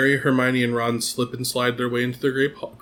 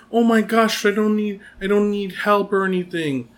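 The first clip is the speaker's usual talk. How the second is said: put-on high, eager kid voice; a proud boy insisting he needs no help; excited little Harry; 9 semitones higher than usual. Young Harry riding a bike for the first time, eager.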